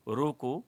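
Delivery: रोको alone, then stop at the comma; pause after रोको. Shown as a demonstration. Teacher reading the second example sentence, pause after रोको. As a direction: break right after रोको, cutting it off from मत. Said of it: "कामा है".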